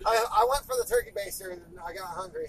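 1 mock girl voice. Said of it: "She goes".

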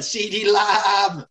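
slow drawn-out shout; stretched, excited shout; hyped shout. Real, not acted. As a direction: bellow the name out, stretched. Hyped shout of player name.

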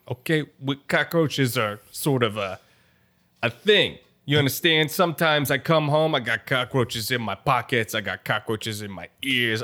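lightly voiced mobster, matter-of-fact; a touch of a wiseguy explaining his trade; Italian gangster character. Gangster explaining the cockroach business in Italian accent.

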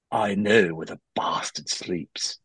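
slow, drawn-out movie-line impression; slow mock-dramatic film quote; Keanu Reeves. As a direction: deliver a bad movie line very slowly. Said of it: "your Keanu Reeves impression".

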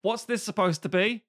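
hammed-up accent, swinging up high; mock the film villain's odd accent; Jon Voight. Voight in Anaconda, mocked snaky accent. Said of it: "he comes at you like a snake".

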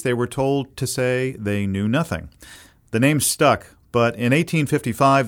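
measured documentary-style intro read with lifted key words; scripted podcast narration. Acted. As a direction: narrate the history like a polished radio host. Host reads scripted podcast introduction.

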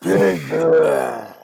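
mumbled, not clearer; mumbled again. Acted. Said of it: "he won't say it more clearly".

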